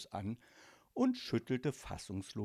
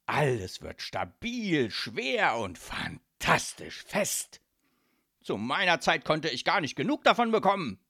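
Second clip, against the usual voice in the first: rapturous godfather; 5 dB louder than usual. Acted. Godfather rhapsodises about cement.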